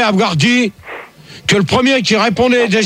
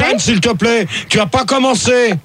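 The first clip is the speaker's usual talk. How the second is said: higher, insistent voice; exasperated scolding; 3 semitones higher than usual. Real, not acted. Host tells Jeanne she is not to start, exasperated. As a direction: cut the caller short. Host silences a caller who cuts in.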